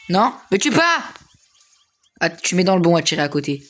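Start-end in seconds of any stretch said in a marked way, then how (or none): 0.1-1.1 high, slow, pleading cry as he's about to die; panicked high plea. Real, not acted. Gamer begging an enemy not to kill him, panicked high plea. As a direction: beg not to be killed, voice jumping up.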